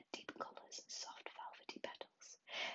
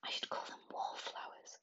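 put-on louder whispered growl of an old wizard; 6 dB louder than usual. Old wizard naming the flowers for the Queen, mock growl. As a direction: growl it low and gruff, in a whisper. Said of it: "growled the wizard".

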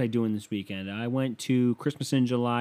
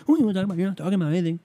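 put-on higher and louder scornful girl voice; mock girlfriend; 9 semitones higher, 5 dB louder, much faster than usual. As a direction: scoff like the dismissive girlfriend. Mimicking girlfriend attacking.

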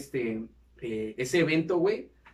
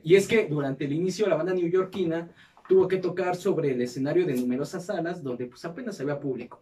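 measured documentary-style read; scripted narration; 3 semitones higher than usual. Acted. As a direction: read it out like a podcast history segment. Reads the episode script aloud.

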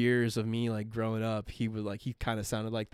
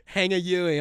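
raised, put-on Boston local; mock Boston accent; 4 semitones higher, 4 dB louder than usual. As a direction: imitate a Boston local giving directions. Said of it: "you know, Boston or, like, New York".

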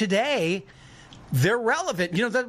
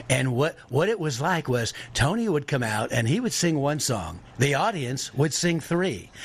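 Tom Dreesen impression; 3 semitones lower than usual. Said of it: "Tom talks like this".

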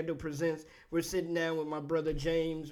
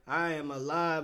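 smooth swagger; 3 semitones lower than usual. Shown as a demonstration. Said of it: "trying to be all smooth and swagged out".

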